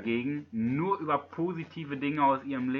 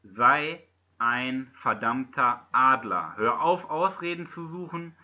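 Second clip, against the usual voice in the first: motivational speaker. Acted. Motivational closing appeal.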